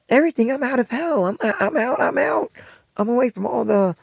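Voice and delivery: high, loud, triumphant declaring; loud insistence. Retold or imitated. Insisting to stepdad he's leaving school, loud triumphant cry. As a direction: crow that you're finally free.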